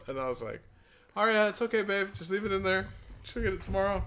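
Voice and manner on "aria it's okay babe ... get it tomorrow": mock-soothing dad. Dad voices himself soothing his daughter.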